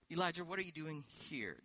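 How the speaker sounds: gentle. Shown as a demonstration. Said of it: "as he's right there with them".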